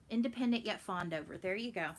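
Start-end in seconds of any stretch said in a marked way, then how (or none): none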